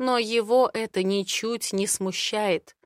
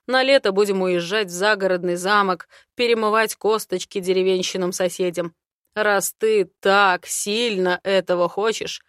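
slightly louder, lightly voiced man; a hint of a confident dragon man; Aaron's voice; 5 dB louder than usual. Aaron speaks, held role. (уверенный мужской голос)

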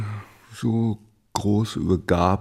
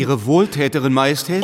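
startled question; 4 semitones higher, 7 dB louder, faster than usual. Acted. Doctor startled by king's words.

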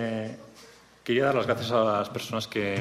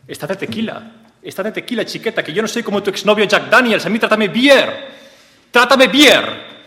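building to a shout; 10 semitones higher, 8 dB louder than usual. Acted. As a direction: climb from a coaxing high voice to a hammed-up shout. Acted lover's plea, building.

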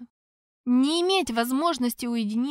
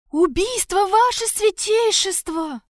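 high, loud, panicked blurt; frantic guard reporting a murder; 9 semitones higher, 7 dB louder than usual. Acted. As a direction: gasp out the news wild-eyed. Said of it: "бешено завращал белками глаз гвардеец".

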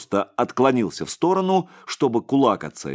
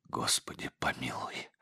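breathless whisper, much lower and softer; whispered prayer; 9 semitones lower, 14 dB quieter than usual. A narrator's reading. Tortured monk prays to God in a whisper. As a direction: pray for mercy in a bare whisper. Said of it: "прошептал отец Егорий".

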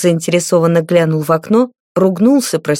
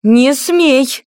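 higher, urgent don't; forceful cry; 6 semitones higher than usual. A narrator's reading. Cora rushes to stop the beating, urgent cry. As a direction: throw yourself in to stop the blow. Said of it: "ринулась на перерез Кора".

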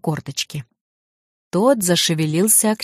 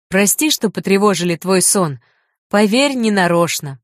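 cheerful; 2 semitones higher than usual. Acted. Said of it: "сказал бодро".

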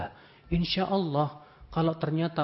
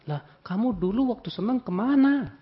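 rebuke; 8 semitones higher, 5 dB louder than usual. Acted. Preacher rebuking the congregation.

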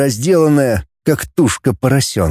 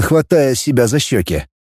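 ordinary delivery, nothing marked

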